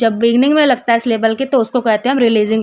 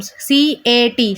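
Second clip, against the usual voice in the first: सी ए टी slowly, letter by letter; letters said separately; much slower than usual. Shown as a demonstration. Teacher splitting cat into phonemes, spelled letter by letter. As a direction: spell out सी, ए, टी with a space after each. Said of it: "अलग-अलग हो गया".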